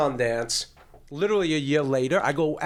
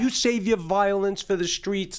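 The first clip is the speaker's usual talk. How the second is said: teacher goes nuts; 6 semitones higher than usual. Retold or imitated. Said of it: "my teacher goes nuts".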